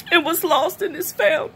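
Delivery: tearful, voice breaking on the last words; fighting back tears to the end; crying while reading. Real, not acted. Reading the father's welcome for the lost son, tearful. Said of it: "I'm sorry that I cry so much".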